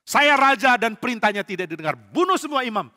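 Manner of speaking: angry king ranting about betrayal. Acted. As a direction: vent his grievance at everyone. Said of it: "Saul makin marah".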